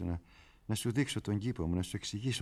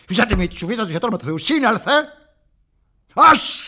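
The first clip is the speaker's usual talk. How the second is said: loud, higher barking orders; exasperated scolding; 11 semitones higher, 12 dB louder than usual. Acted. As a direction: snap him out of it. Scolding the crier. (αγανακτισμένη επίπληξη)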